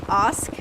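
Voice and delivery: "ask" with a broad ah, like "ahsk"; own accent's ask. Shown as a demonstration. Streamer backs her own accent, "ask" said as "ahsk". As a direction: say "ask" with a long open ah. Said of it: "You say it the right way".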